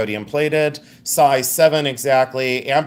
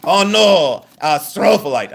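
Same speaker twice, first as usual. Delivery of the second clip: loud, high hammed-up correction; mock yell with a booming STRO; imitated yell; 4 semitones higher, 4 dB louder than usual. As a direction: imitate him insisting in your face. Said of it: "yell it down my face".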